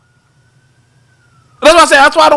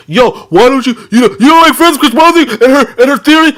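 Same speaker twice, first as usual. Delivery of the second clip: mad; 5 semitones higher than usual. Retold or imitated. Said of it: "they be mad at me".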